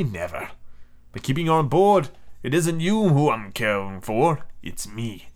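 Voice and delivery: cold authority over prisoners; a lightly voiced stern commander. The captain tells his prisoners they can never leave, firm.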